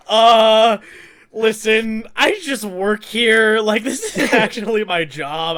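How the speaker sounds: long loud "uh", then slow; mildly acted stalling, spelling it out slowly; reluctant helplessness. First-aid worker fending off a grandma's requests, reluctant.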